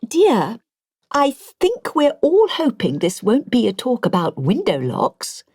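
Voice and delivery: put-on a poised older woman correcting the speaker politely; posh elderly lady. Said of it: "An immaculately dressed woman in her eighties had a point".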